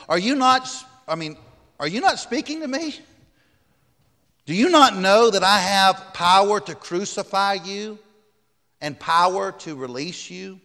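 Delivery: high-pitched, incredulous questioning; indignant Pilate. A narrator's reading. Pilate questioning a silent Jesus, high and indignant. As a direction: press the silent prisoner with rising disbelief.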